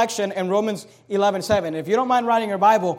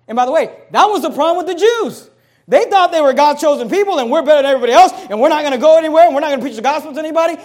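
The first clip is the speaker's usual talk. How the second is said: louder, higher, rushing fast; fiery preaching; 5 semitones higher, 7 dB louder, faster than usual. Acted. Preacher warning the congregation against pride, loud and fast. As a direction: rail against pride at full force.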